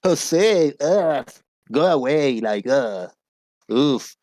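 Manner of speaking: exaggerated loud, high "ugh" that drops off; disgusted haters. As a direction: imitate haters groaning in disgust at seeing you. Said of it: "they hate my ass".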